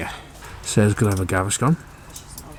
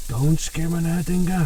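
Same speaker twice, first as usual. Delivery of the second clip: higher mock German accent; 8 semitones higher than usual. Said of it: "That was my German accent".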